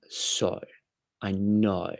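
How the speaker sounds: "so" and "know" with a bent Aussie O, like "soy" and "noy"; Australian vowel stretched on "so" and "know"; Australian O's. Shown as a demonstration. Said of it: "I've got the O's down, I can do".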